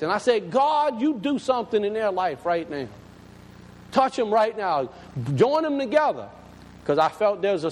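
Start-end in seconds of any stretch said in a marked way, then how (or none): 0.5-6.3 fervent retold prayer, pitch lifting; prayer of faith. Pastor praying for the sick man's family, fervent. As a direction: call on God with conviction. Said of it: "I prayed the prayer of faith".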